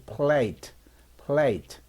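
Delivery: plate with an ay glide, silent e; demonstrated long A in plate; long A sound. Shown as a demonstration. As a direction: say plate with a clear ay. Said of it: "A는 A 소리가 나죠".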